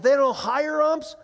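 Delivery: loud, high, drawn-out disbelieving question; incredulous. Retold or imitated. Dad learning umps aren't hired, acted loud disbelief. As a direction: play up the shock, slowly and loudly.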